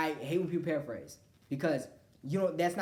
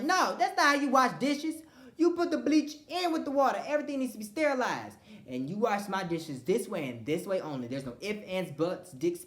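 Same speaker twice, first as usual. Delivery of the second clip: bossy lecture to friends; 3 semitones higher, 3 dB louder than usual. Retold or imitated. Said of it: "I'm like".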